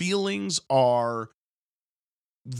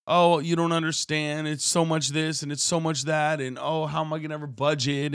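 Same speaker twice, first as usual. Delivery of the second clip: higher, whiny mock complaint; whiny complaining friend; 6 semitones higher than usual. Preacher mimicking a friend griping about his budget, whiny. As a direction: whine about money like the friend. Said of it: "he was coming at me".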